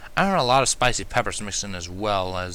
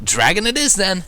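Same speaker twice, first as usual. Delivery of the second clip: high, loud laughing exclamation; startled by flames, laughing it off; startled cough-laugh; 9 semitones higher, 6 dB louder than usual. Acted. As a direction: blurt it out with a shaky laugh. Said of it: "coughing out".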